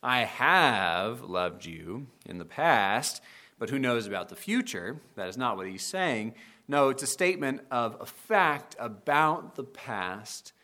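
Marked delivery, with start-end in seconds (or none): 0.0-5.0 wavering, noncommittal promise; hedging God. Retold or imitated. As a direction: voice a God who isn't sure about tomorrow. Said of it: "as if God is saying".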